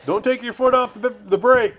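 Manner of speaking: high, loud mock holler; hammed-up gruff yell; imitating George hollering. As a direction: yell at the kid to keep his foot on the brake. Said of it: "I remember that being hollered all the time".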